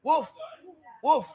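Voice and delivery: firm short barks; demonstrated woof. Shown as a demonstration. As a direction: show the right bark. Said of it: "Not hoof".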